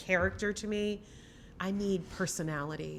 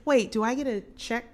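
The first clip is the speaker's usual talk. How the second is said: higher, louder mock quote; voicing the producer; 7 semitones higher, 6 dB louder than usual. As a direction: play a producer checking on the money. Acted producer asking about pay.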